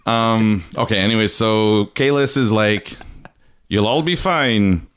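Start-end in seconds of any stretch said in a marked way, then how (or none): 3.7-4.9 slow Klingon farewell; lightly accented, measured Klingon speech; a hint of a solemn Klingon accent. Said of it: "That's my Klingon accent".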